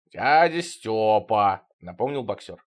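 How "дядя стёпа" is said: put-on slow old man voice. Old boxer corrects name.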